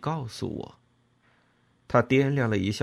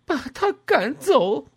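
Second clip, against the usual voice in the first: high, loud, desperate yell; near-roaring shout; 7 dB louder than usual. A narrator's reading. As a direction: scream it out as a furious order. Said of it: "几乎是嘶吼着对弗朗科说".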